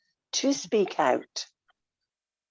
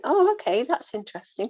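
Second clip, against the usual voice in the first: curious interest; 5 semitones higher than usual. Retold or imitated. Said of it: "and think".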